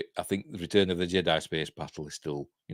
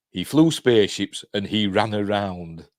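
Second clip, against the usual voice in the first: mocking laugh; 4 dB louder, slower than usual. Real, not acted. Mocking Lucas's claim with laugh.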